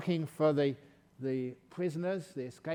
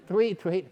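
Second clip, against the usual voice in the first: bird sound retry; 5 semitones higher, 10 dB louder than usual. Retold or imitated. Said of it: "I can't do bird sounds".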